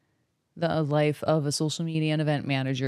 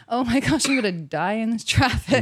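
loud, higher, playfully alarmed; mock traffic panic; 6 semitones higher, 4 dB louder than usual. Newcomer worrying about big-city traffic, mock panic. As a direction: dramatise your dread with a laugh. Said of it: "worried about the traffic".

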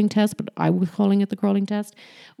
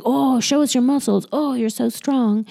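higher-pitched gushy praise; mock-gush over a little boy's strength; gushing admiration; 6 semitones higher, 3 dB louder than usual. Adult to a little boy, gushing. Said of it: "it's a really typical thing".

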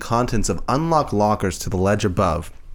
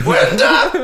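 calling out; 5 dB louder than usual. Pretend. Calling out parent's name, laughing.

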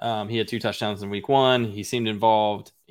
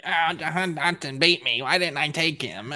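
mock regretful rival; 4 semitones higher than usual. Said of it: "and be like".

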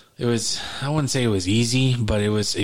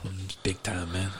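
put-on Jamaican accent; 10 dB quieter than usual. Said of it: "You don't sound Jamaican".

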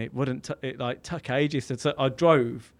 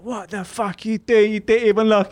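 higher, indignant retold yell; fuming; 8 semitones higher, 6 dB louder than usual. Driver confronts the man who pulled out, mock furious. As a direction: have a go at the other driver. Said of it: "I was fuming".

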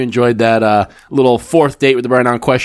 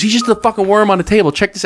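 high, eager acted voice; excited retelling; 10 semitones higher than usual. Dealer tells the manager about the worm, excitedly. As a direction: imitate someone thrilled to show a clip.

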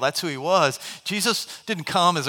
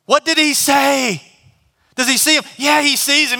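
curious friend; 9 semitones higher, 5 dB louder than usual. Acted. Friend on the roof asking the others, high and curious. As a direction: strain to hear what was said.

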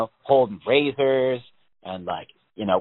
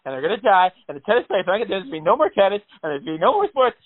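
a hint of mock panic; 4 semitones higher than usual. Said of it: "panic attack moment".

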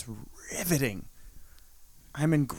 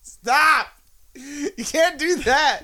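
sharp, high protest; outcry; 9 semitones higher, much slower than usual. Real, not acted. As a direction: cry out stop, then drag it out slowly. Protesting the changed sign-off.

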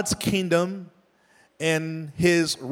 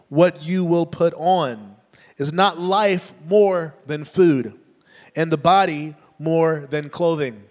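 measured, earnest reading of scripture aloud. Acted. Preacher reading Matthew to the congregation, earnest. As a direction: read the passage like a preacher at the pulpit.

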